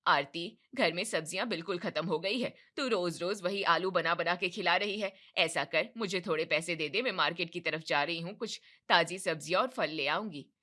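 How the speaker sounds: a hint of a bossy mother-in-law; demanding mother-in-law. Mother-in-law asking daughter-in-law for money, bossy. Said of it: "कमला आरती से कहती है".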